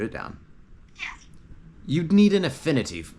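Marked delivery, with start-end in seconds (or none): 1.9-3.1 father's voice. A narrator's reading. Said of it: "his father would reply".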